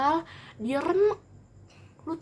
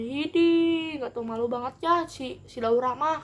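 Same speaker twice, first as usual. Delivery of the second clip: mocking jeer; 3 semitones higher, slower than usual. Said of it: "kata gitu".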